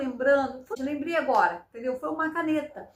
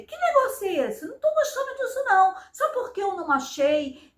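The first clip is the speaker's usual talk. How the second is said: retold firm retort; 6 semitones higher than usual. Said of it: "Eu falei com atitude".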